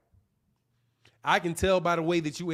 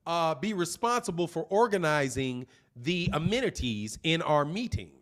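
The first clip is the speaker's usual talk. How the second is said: a lightly voiced polite corporate boss, measured and calm; polite rich white man; 2 semitones lower than usual. Speaker imitates a rich boss assigning tasks, mildly polite. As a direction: hand out the task smoothly like a courteous executive. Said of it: "They say it like this".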